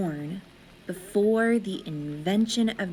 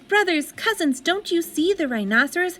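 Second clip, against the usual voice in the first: thrilled, point at the wall; child waking mama, excited and high; 8 semitones higher than usual. A narrator's reading. Child pleads with cousins.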